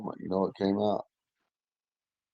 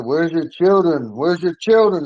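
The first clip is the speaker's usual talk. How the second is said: higher, slightly raised mock yell; retold screaming; 7 semitones higher, 3 dB louder than usual. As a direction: imitate hysterical officers, drawing out the question. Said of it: "They're screaming at me".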